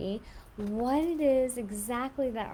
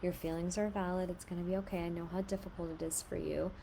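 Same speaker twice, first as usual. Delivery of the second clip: put-on soft, tender comfort for a crying child; soothing; 4 dB quieter than usual. Shown as a demonstration. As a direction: reassure the child gently. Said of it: "you tell the child".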